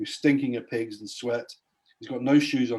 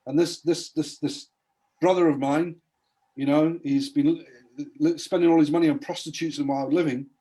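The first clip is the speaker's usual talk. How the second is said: raised, aggrieved protest, higher pitch; indignant older brother; 3 semitones higher, 4 dB louder than usual. Retold or imitated. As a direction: whine like the jealous son who feels cheated. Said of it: "he gets really mad".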